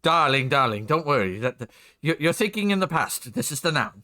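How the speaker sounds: lightly put-on flamboyant designer voice; a touch of theatrical dismissiveness; Edna Mode. Streamer brushing off a worry, lightly voiced diva. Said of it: "I can actually do Edna Mode's voice".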